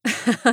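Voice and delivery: a short raspy chuckle; hoarse laugh. Acted. Amanda laughs hoarsely at Rein's worry, short raspy laugh. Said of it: "Хрипло рассмеявшись".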